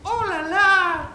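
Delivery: high, drawn-out squeal of wonder; gushing bimbo. Acted. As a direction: coo it like a delighted airhead. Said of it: "elle faisait comme ça, elle faisait". (voix de bimbo émerveillée)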